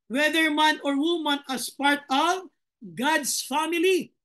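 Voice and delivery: slow, measured Bible reading; solemn verse read to the congregation; scripture reading. Acted. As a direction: read each word of the verse deliberately. Rereads the verse slowly.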